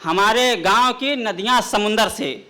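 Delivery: measured, declaiming poetic delivery; ghazal recitation. Acted. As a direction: recite the couplet grandly.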